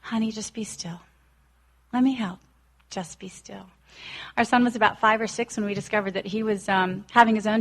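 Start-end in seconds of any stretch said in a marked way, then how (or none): 0.0-3.7 gentle reassurance. Retold or imitated. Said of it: "I can just hear God saying".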